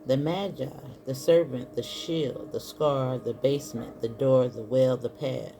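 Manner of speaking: measured read from a book, pausing between phrases; reading aloud. Acted. Tarot reader reading a book passage to viewers, measured read-aloud. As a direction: read it out item by item, with pauses.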